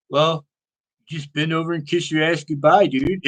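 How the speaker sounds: lightly voiced resigned stoner; a hint of a laid-back stoner; stoner buddy. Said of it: "one of those stoner guys that just talks like that".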